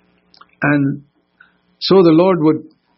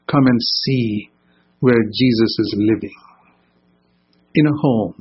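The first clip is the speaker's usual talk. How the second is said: gentle invitation; 3 semitones lower than usual. Retold or imitated. New Testament invitation contrasted with Old.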